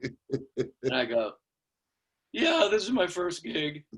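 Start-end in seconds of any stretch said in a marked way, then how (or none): 2.3-3.9 put-on high, slow boyish admission; sheepish kid. New drummer admitting to older players, sheepish boy voice. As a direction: own up in a little kid's voice.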